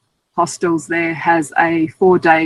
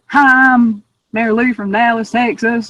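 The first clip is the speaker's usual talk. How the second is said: exaggerated Dallas Southern accent, pitched up; higher-pitched mock Southern belle accent; Mary Lou; 5 semitones higher than usual. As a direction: lay the Texas accent on thick. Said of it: "that accent was way too exaggerated".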